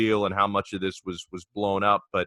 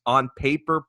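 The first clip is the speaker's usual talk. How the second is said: "on paper" pitched higher, ending on a rise; stress on "on paper"; 5 semitones higher than usual. Real, not acted. Host cautioning Paul about the rivalry, stressing "on paper". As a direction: punch up both words of "on paper". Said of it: "I emphasize the words".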